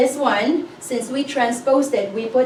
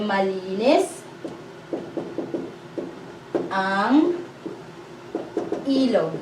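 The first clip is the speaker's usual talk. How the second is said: slow dictation; 3 semitones lower, 6 dB quieter than usual. Shown as a demonstration. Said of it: "So you'll say".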